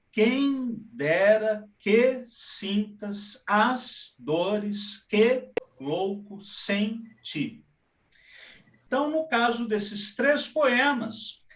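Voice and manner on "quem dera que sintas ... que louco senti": very slow, each strong syllable of "Quem dera que sintas" hit; scanning the rhythm. Shown as a demonstration. Teacher demonstrating binary rhythm to students, slow and stressed. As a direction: beat out "dores que louco senti" in falling pairs. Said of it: "começa com sílaba forte e depois com sílaba fraca".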